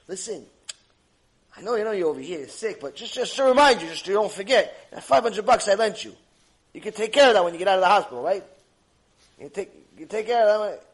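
loud, fast reminder about the debt; mock friend nagging a sick man for money; pushy lender visitor. Visitor reminds patient of loan.

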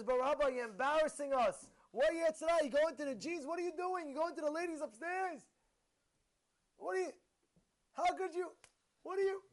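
imitated scandalized protest, pitched high; acted-out indignant questioning; shocked reproach. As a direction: sputter in disbelief at a respected teacher. Acting out shocked students reproaching rabbi.

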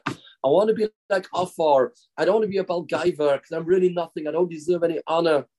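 lightly acted humble pleading to God; mildly imploring prayer, pressed along; begging. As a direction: plead earnestly that you are unworthy. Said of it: "he's begging the Eibishter".

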